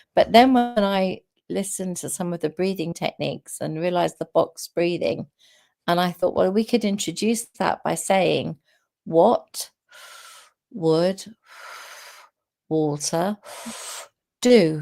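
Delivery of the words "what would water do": unhurried, very slow, drawn-out delivery. Introducing box breathing to a child, question spoken slowly. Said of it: "when you speak it slowly like that".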